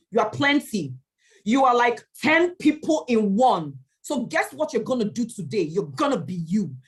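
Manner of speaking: rising pep talk. Retold or imitated. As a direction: pump yourself up before going on stage. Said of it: "I looked in front of the mirror and said".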